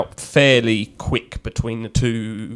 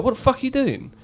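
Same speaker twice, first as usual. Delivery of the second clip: mock confrontation; 12 semitones higher, 4 dB quieter than usual. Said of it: "I'd be like".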